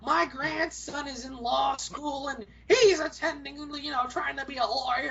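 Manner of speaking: a hint of a rambling granny; chatty granny. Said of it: "this one old lady's".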